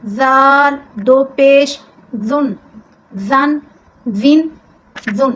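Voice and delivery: ذال said soft with no whistle, slow drill; soft zaal. Shown as a demonstration. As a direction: spell the ذال gently, no hiss at all. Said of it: "اس ذال کو آپ نے نرمے سے پڑھنا ہے".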